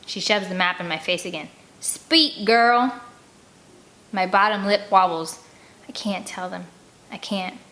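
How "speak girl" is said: harsh command. Acted. Captor commands.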